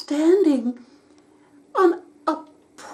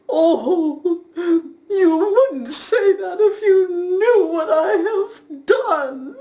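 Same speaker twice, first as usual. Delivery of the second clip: tearful; 3 semitones higher than usual. Acted. Sobbing faun confesses.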